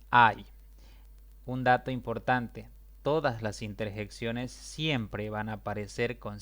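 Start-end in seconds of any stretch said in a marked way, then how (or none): 0.1-0.5 loud "ay" pointed out; exclaimed ay. Shown as a demonstration. Teacher singles out "ay" loudly. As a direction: stress "ay" as the interjection. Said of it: "aparece la interjección".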